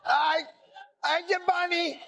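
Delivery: high, simple-minded lug voice, slowing at the end; Lenny from Mice and Men. Retold or imitated. Host turning the mobster threat into Lenny, high oafish voice. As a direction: play a childlike oaf trying to talk tough. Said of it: "That's Lenny from Mice and Men".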